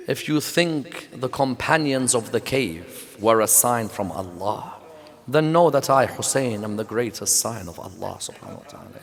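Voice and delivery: soft, fading solemn voice from the head; quiet reverent voice. Acted. The head of Hussein answers the priest, soft and hushed. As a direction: let it sink to a hushed revelation.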